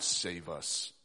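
low, soft Save us; quiet plea. Acted. Preacher whispering the unspoken cry, low and soft. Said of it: "We haven't had to cry out".

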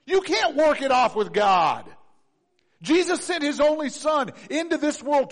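loud, forceful declaration; shouted sermon line; preaching shout. Real, not acted. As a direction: hammer the point home to the church. Preacher drives point home.

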